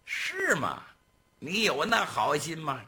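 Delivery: high, sneering interrogation; bullying gang boss. Acted. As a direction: needle him with mock surprise. Gang boss doubts servant.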